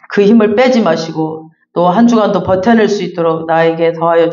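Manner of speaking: earnest pulpit prayer; closing prayer. Acted. Pastor prays aloud for the congregation, earnestly. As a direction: pray it earnestly for everyone.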